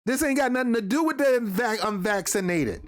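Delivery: getting carried away, before reining it in; worked up. Real, not acted. Commentator rebutting the blame on the unvaccinated, worked up. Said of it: "I'm gonna calm myself down".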